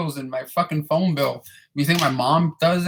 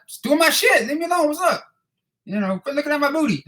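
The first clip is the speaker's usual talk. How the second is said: much higher sassy falsetto; mock sassy voice; 11 semitones higher than usual. Janitor retelling his banter with his boss, squeaky high and sassy. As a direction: fire back in a high, sassy voice. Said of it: "I'm like".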